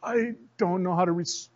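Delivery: soft, breathless, at a loss; barely voiced bafflement; stunned controller. Flustered controller on an open mic, soft. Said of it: "they left the mic open".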